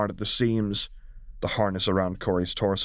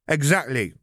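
higher, playful mock wail; 7 semitones higher, 3 dB louder than usual. Valmora missing Zariah, hammed-up wail. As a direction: pretend to be hard done by. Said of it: "Valmora wailed".

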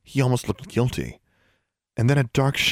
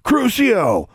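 high, dramatic incantation; loudly intoned; 12 semitones higher, 4 dB louder than usual. A narrator's reading. Boy brandishes his wand at the girl, loudly intoning. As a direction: intone the curse theatrically, pitched up. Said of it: "loudly intoned".

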